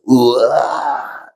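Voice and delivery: a drawn-out mock roar of a waking dragon. Teacher shows students the woken dragon, drawn-out mock roar. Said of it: "이래 되겠죠".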